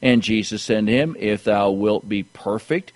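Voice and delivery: measured, projected preacher's reading; scripture reading. Acted. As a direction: read the verses out to the congregation with emphasis. Reads scripture aloud to congregation.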